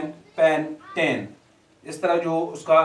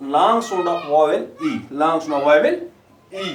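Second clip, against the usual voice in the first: slow emphatic modelling; 4 dB louder, much slower than usual. Shown as a demonstration. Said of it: "अब ध्यान से देखो".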